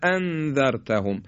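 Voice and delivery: اانذرتهم with a crisp, sharp glottal stop on the hamza; sharp hamza, slow. Shown as a demonstration. Quran teacher modelling the correct hamza for students. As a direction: land the hamza of اانذرتهم cleanly and heavily. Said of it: "حالا اگه یکی از اینا رو خوب نگیم".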